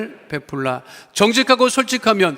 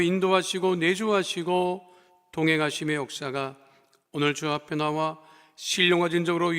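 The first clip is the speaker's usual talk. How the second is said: benediction; 2 semitones lower, 5 dB quieter than usual. Acted. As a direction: lay the blessing over the people. Pastor's benediction. (부드럽고 엄숙한 축도)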